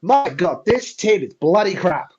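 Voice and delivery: a quick put-on British accent, bloody crap punched out; a British accent done for a laugh. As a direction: play a British fan moaning in a British accent. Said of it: "Do you want me to add a bit of British flair?".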